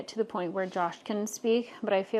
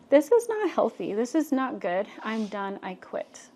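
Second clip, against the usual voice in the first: emphatic realization. Retold or imitated. Woman retelling her decision to quit, emphatic. Retold realization before quitting.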